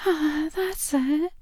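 usual speaking voice

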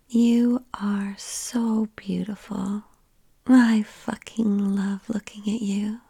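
ordinary delivery

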